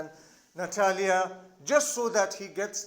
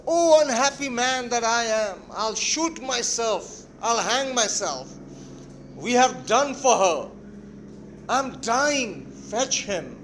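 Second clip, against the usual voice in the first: raised, theatrical outburst of despair; frantic lament; 5 dB louder than usual. Acted. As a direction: cry out in mock agony, drawing out the threats. Father and daughter's acted frantic quarrel.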